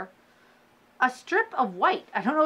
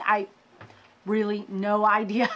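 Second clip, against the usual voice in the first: a sheepish whisper of no idea; whispered admission. Real, not acted. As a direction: whisper it like a shy confession. Confused admission after sounding nooking.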